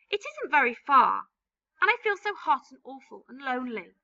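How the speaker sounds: high, pitiful begging; a child's tearful plea; pleading boy. Acted. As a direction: beg them, near tears. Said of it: "James cried out".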